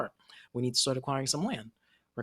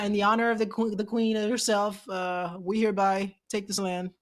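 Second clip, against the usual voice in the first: mock royal proclamation; 6 semitones higher, 3 dB louder than usual. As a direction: proclaim it grandly like a British officer seizing land. Mimicking a British colonial proclamation.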